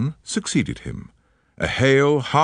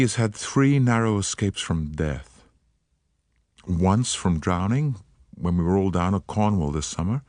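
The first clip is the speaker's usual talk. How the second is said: put-on light American accent, eager and polite; an American woman, gently worried; faint American accent. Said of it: "She spoke with a faint transatlantic accent".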